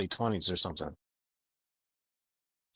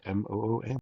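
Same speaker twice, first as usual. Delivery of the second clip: monotone voice. Retold or imitated. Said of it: "a monotone voice said".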